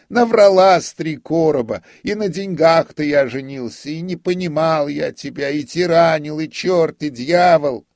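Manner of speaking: very high, loud mocking rant; scornful tirade. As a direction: tear into her with loud sarcasm. Notary scolds his wife mockingly. (высокая, громкая язвительная тирада)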